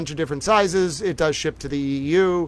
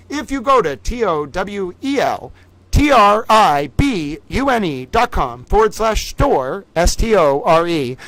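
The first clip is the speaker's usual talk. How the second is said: slow, louder letter-by-letter spelling; spelled out slowly; 2 semitones higher, 3 dB louder than usual. Shown as a demonstration. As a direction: spell every letter for the viewers. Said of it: "towel Vanna White mode".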